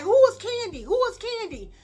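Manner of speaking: imitated hollering. Everybody down the hallway warning Candy, high imitated hollering. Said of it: "everybody hollering down the hallway".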